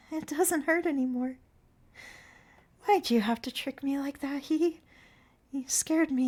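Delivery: put-on high, light girlish voice; Consuela, high and dreamy, drifting away; fading girl. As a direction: speak high and childlike as she fades.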